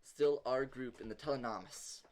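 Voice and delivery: measured narration with thoughtful pauses; game master's scene setting. Acted. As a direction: set the scene calmly, pausing between details.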